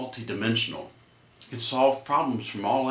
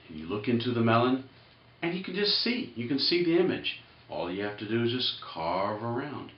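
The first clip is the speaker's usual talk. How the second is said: mock zen guide. Explains zen carving like a guru.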